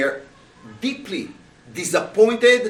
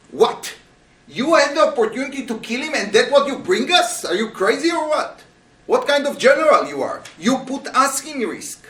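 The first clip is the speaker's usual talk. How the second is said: high, incredulous outrage at their commander; the men demand what he was thinking; shocked outrage; 6 semitones higher, 3 dB louder than usual. Retold or imitated. Soldiers berate David in high shocked disbelief.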